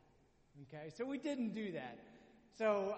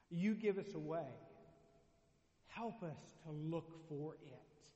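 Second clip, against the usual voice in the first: closing prayer. Acted. Pastor leading the church in a closing prayer, earnest. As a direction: pray over the congregation, measured and sincere.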